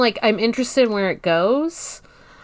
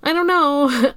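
high unsure quote; 9 semitones higher than usual. Retold or imitated. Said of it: "being like".

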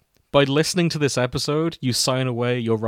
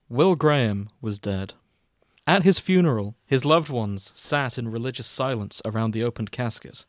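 mock-solemn fanfic reading, mostly at usual pitch; story narration. Podcast host reading a crack fic to cohosts, mock-solemn narration. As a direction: read the opening like a grave eulogy, tongue in cheek.

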